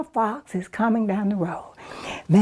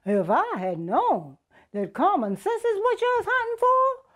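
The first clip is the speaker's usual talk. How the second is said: sly rabbit; 6 semitones higher, 4 dB quieter than usual. Acted. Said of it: "Brer Rabbit says".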